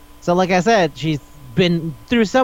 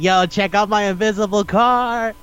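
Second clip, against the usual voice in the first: lightly voiced show-off rapper, pitched up; boastful rapper; 5 semitones higher than usual. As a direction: imitate a rapper bragging.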